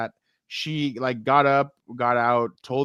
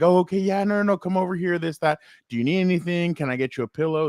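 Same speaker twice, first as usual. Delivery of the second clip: retold stewardess; 5 semitones higher than usual. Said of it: "she was like".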